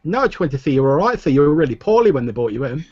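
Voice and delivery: put-on high, quick boy voice; young stable boy. GM voicing stable boy Simon.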